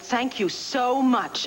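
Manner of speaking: drawn-out, high, heartfelt thanks; effusive thanks. Acted. Caller thanking Miss Lovett for helping, effusively. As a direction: stretch it out with grateful relief. Thanks helper at end of call.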